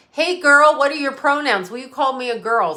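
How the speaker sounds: camp it up as the pronoun lady; mocking the pronoun lady. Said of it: "the pronoun lady".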